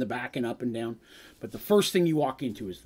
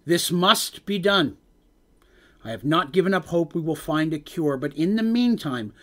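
slow, grave royal proclamation; solemn, resolute king; 4 semitones higher, 5 dB louder than usual. Acted. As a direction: declare it slowly like a grieving king. Thane's resolute speech.

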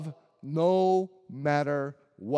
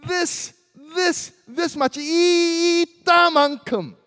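playful mom voice; 10 semitones higher, 7 dB louder than usual. Retold or imitated. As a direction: stretch it out the way mom teased her child. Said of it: "And my mom would say".

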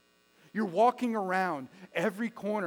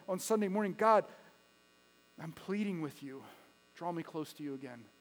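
prayer; faster than usual. Acted. Pastor voices congregation's prayer.

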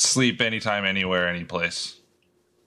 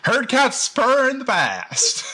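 silly voice; 14 semitones higher, 4 dB louder, slower than usual. Pretend. Deadpan joke about cat purring.

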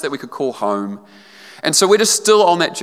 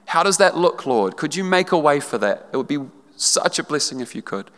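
sample prayer. Pretend. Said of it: "Own it in your heart".

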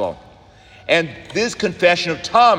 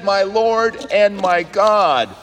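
radical confession; 4 semitones higher, slower than usual. Shown as a demonstration. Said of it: "This is really a radical confession".

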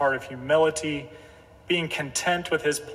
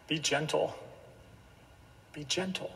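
gentle urging; 11 dB quieter than usual. Real, not acted. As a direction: drop the volume and urge it gently. Preacher softly urges gentleness after quote.

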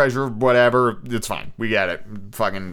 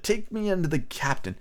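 cold beggar's order, softer; a hint of menace; cold cruel voice; 7 semitones higher, 5 dB quieter than usual. A narrator's reading. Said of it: "a voice so cruel and cold and ugly".

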